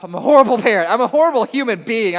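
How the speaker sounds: loud mock self-condemnation; hammed-up guilty parent; imagined judgment. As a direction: voice the audience's verdict on himself, overdone. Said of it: "I know that's what you're thinking".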